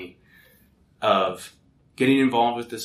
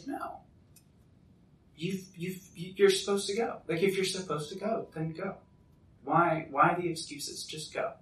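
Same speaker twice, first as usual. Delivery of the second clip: hushed, higher-pitched retold fatherly advice; gentle urging; 7 semitones higher, 5 dB quieter than usual. Dad answering his son's excuses, gently urging. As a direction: softly press him to go, with pauses.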